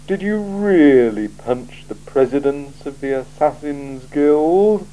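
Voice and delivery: a cool ruler weighing every word; icy, deliberate interrogator; Lord Vetinari. Acted. Vetinari asks Vimes.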